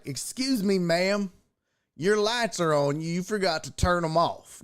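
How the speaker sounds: a hint of a simple country gentleman; lightly imitated country guy. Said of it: "this is how he talked".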